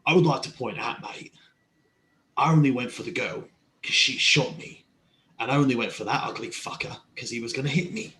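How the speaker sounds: put-on line redone with an accent; Jack with an accent. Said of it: "I'm saying that in character with no accent".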